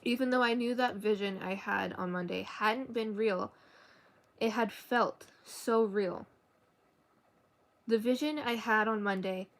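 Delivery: even, measured novel reading; story narration. A narrator's reading. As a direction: read the story aloud evenly. Reads a novel aloud.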